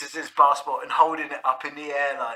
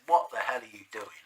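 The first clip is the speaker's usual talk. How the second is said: whisper; 6 dB quieter than usual. Retold or imitated. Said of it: "they said".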